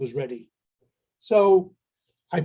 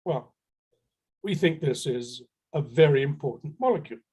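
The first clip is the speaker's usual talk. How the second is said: most serious voice; 2 semitones lower than usual. Retold or imitated. Bluffing seller answers the buyers in a mock serious voice. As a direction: sound solemn to bluff it out. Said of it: "put on my most serious voice".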